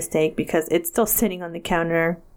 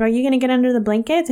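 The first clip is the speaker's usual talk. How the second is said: fast irritated demand; quick retold snap; 3 semitones higher, faster than usual. Wife questioning husband about blankets, quick and irritated. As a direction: fire it off, annoyed. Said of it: "I snapped at him".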